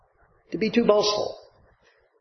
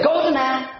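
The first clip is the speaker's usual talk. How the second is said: pitched up in mock Shakespearean style; mock old-fashioned phrasing; 7 semitones higher than usual. Preacher mocking a phrase nobody says today, mock quaint. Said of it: "We don't, we don't say".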